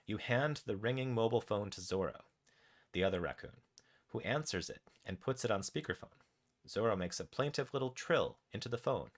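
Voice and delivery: measured, animated game narration; story narration. A narrator's reading. Narrator tells players what their raccoon does, story narration. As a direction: read the adventure out with deliberate pauses. Reads interactive story aloud.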